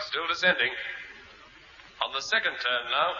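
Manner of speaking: small far-off radio voice; faint over radio. Acted. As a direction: report in from far below, not very loud. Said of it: "He's not very loud, is he?".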